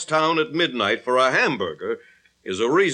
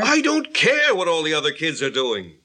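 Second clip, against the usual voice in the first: irritated retort; 2 semitones higher than usual. Acted. Father's first retort in quarrel.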